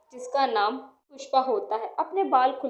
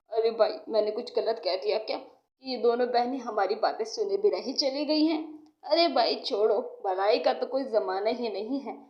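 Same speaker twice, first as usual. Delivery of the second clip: lightly voiced man in a lower pitch; snubbed village man; 4 semitones lower than usual. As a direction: grumble to your friend, voice dropped. Two snubbed village men grumble.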